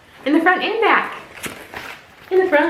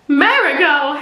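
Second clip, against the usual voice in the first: Marigot blurted louder with a laugh; laughing exclamation; 3 semitones higher, 4 dB louder, slower than usual. Shown as a demonstration.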